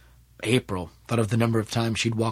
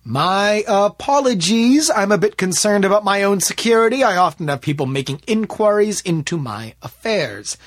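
overdone, higher and louder excuse; less than convincing; 8 semitones higher, 5 dB louder than usual. A narrator's reading. Smith excusing himself to David, unconvincingly. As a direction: overplay a thin cover story. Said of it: "in a tone that was less than convincing".

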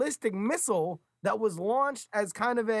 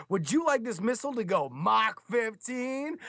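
over eager infomercial; 3 semitones higher than usual. Retold or imitated. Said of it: "that was, like, infomercial style".

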